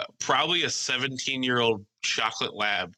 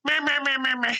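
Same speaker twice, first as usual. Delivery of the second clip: high mocking meh-meh; 4 dB louder than usual. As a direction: bleat it back to mock him. Mocking the friend's complaint.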